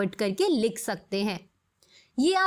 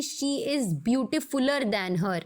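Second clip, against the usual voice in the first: somewhat slow read of the wrong form; teacher showing the wrong English form to avoid; wrong example; much slower than usual. Shown as a demonstration. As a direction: say the incorrect version as a warning. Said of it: "ये एकदम गलत English हो जाएगी".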